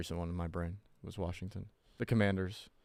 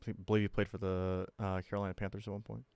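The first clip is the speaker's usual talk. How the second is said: whispering; 7 dB quieter than usual. Real, not acted. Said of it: "Why are you so timid right now?".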